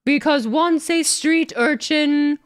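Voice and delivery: slow, smug, lightly put-on arrogant champion; a hint of a pompous wrestler voice, drawn out; Gunther impression. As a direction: lay out each word like a haughty heel. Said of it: "Do the Gunther impression with it".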